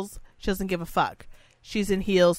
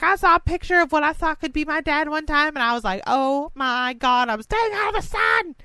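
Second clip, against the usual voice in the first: much higher, fast valley girl impression; 9 semitones higher than usual. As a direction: squeal it like a California valley girl. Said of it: "She sounds like a valley girl".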